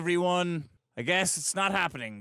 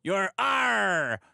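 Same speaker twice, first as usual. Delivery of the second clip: lightly voiced pirate; slower than usual. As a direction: read it like a pirate. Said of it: "reading this in the pirate voice is so dumb".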